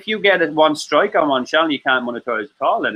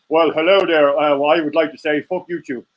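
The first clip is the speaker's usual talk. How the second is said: elegant Jerry. Acted. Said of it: "he says it very elegantly".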